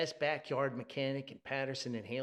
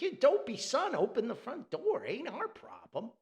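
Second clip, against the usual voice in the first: gruff scolding; 9 semitones higher, 5 dB louder than usual. Retold or imitated. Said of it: "He's like".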